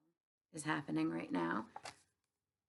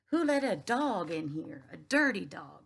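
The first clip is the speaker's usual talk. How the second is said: slower, louder repeated shout; 5 dB louder than usual. Acted. Store manager yelling again about the dirty dog, loud. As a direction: drag out the angry yell. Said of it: "he kept on shouting".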